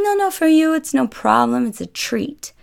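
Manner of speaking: high, insistent host, dropping as he finishes; mock Italian host pressing a treat; typical Italian man. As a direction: wave away the objection, starting loud and very high. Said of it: "And he's like".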